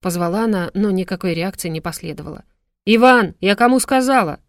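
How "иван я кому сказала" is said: loud barked command, pitched up; barking at her son. A narrator's reading. Mother barks at her son behind the door, loud and sharp. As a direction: bellow at the son who won't come out. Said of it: "гаркнула хозяйка квартиры".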